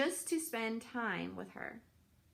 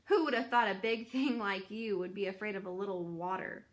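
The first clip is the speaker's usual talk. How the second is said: put-on teasing old goose. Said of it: "Loudwing laughed".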